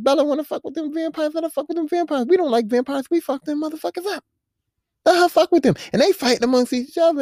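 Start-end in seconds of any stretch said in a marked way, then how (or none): 0.0-5.7 higher, brash pack-bro voice; mock werewolf rant. Werewolves shrugging off Bella, higher, brash and sneering. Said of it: "They like".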